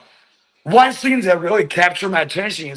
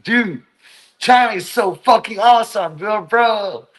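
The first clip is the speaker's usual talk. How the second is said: higher-pitched mock enthusiasm at first, easing off; put-on hype, lightly mocking; mocking gushing foreigners; 4 semitones higher than usual. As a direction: lightly parody a gushing vlogger praising the country. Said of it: "making fun of those people".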